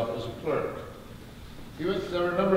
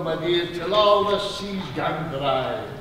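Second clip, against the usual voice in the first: recited verse line; 3 semitones higher, 4 dB louder, slower than usual. Acted. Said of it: "One of the most famous is A Red, Red Rose".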